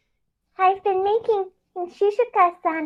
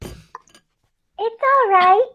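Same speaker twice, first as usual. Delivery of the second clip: cooing; 3 semitones higher, much slower than usual. Acted. Sayuri soothing the Naginata, slow coo. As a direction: coo it gently, drawn out. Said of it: "Sayuri cooed".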